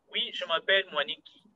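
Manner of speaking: imitating a student's Kenyan-accented French; switched accent. Teacher mimics a student's sudden switch, Kenyan-accented French. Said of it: "Then all of a sudden you say".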